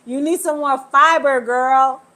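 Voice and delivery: words bubbling with giggles; chuckling joke; laughing while talking. Real, not acted. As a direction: speak through real laughter.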